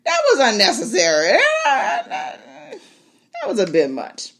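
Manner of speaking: high, laughing mock scolding of the dragon. Viewer scolds the dragon, laughing high. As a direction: laugh while telling the dragon off. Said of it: "I'm like".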